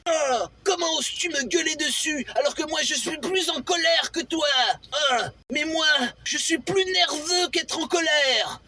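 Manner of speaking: half-serious shouting match; mock quarrel. Acted quarrel between two characters.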